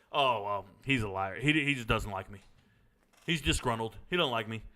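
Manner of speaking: a hint of a sulky subordinate making excuses; defensive leader. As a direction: sergeant quoting a leader's excuses, mildly dismissive. Leader defending himself to sergeant.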